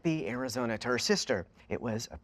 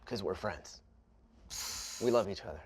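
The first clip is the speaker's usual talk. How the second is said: ocean voice; 3 semitones lower than usual. Acted. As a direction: speak as if the sea gave you this voice. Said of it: "why are you talking like that".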